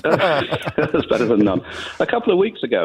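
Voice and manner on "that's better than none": slow, drawn out through a laugh; laughing echo. Real, not acted. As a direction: savour the line as you chuckle. Caller echoes host, laughing.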